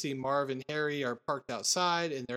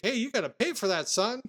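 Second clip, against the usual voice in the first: store lady's line; 5 semitones higher than usual. Retold or imitated. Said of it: "the lady's like".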